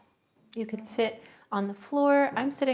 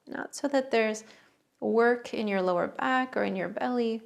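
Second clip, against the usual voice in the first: unhurried meditation guidance, long pauses between phrases; guided meditation. Real, not acted. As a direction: guide listeners gently into the breath, phrase by phrase. Leads a breathing meditation.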